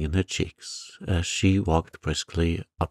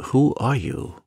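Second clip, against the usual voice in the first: sharp, higher and louder demand; blunt; 7 semitones higher, 4 dB louder than usual. A narrator's reading. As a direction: fire it at her bluntly. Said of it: "he said bluntly".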